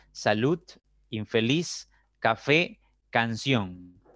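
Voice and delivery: "salud", "infeliz", "café", "canción", each word set apart, punched on its last syllable; stress on last syllable. Shown as a demonstration. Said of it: "llevan la mayor fuerza de voz en la primera sílaba".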